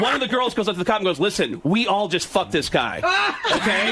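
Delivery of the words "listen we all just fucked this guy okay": higher, giggling through the quote; laughing mock girl voice. A girl telling the cop, through laughter. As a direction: play the girl while cracking up.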